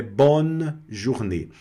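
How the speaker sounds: slow "bonne journée", barely voiced e after "bonn"; light e in bonne. Shown as a demonstration. Teacher gives students the corrected phrase, light e in "bonne". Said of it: "bem levezinho".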